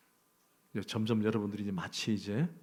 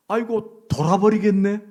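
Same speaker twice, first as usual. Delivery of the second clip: mock wail, pitched up and louder; louder complaint; 8 semitones higher, 9 dB louder than usual. Preacher mimics a fed-up believer, loud mock wail.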